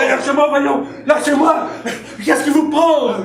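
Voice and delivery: high alarmed cries to be let go; flustered shouts of alarm; panicked protest. Acted. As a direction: struggle free, frightened. Official seized by husband.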